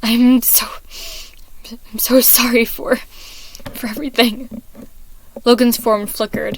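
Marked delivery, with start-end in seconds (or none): 0.0-4.6 crying apology. Acted. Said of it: "Roman was beginning to cry".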